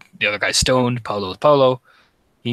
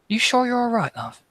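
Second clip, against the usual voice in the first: NPC asking; 12 semitones higher than usual. Acted. NPC checks on girl again.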